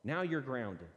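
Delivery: harsh rule enforcer. Retold or imitated. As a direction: pronounce the verdict like a strict judge. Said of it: "master law pronouncers".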